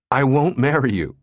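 teasing through laughter; laughing. A narrator's reading. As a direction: laugh out the refusal. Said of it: "she laughed".

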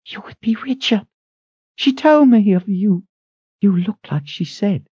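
high, brisk woman's voice; thin head cook. A narrator's reading. Head cook rushes in asking who calls, high. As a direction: ask it sharp and high.

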